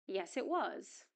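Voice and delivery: "was" with its full vowel; strong form of was. Shown as a demonstration. Teacher models the short answer, strong "was". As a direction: finish on a clear, full "was". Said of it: "and in strong form".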